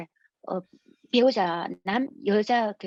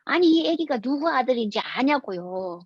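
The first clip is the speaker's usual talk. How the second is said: retold indignant protest. Father challenging officials over whose son it is, mock-indignant. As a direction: imitate an exasperated father demanding understanding. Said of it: "너무 화가 나가지고".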